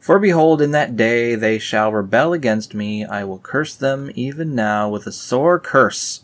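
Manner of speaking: scripture reading. Acted. Reading God's curse aloud to viewers, solemn. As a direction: thunder it like a prophet.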